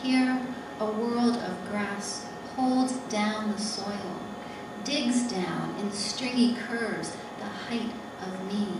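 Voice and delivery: deliberate poem recital in separate phrases; poetry reading. Acted. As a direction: read it as verse, pausing between images. Reads her poem aloud.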